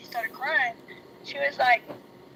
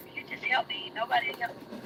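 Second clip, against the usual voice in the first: crying plea; 3 dB quieter, faster than usual. Retold or imitated. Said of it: "I was like".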